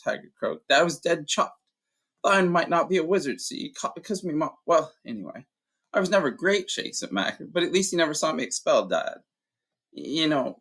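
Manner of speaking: a big man remembering his dad; Hagrid, gruff giant. Acted.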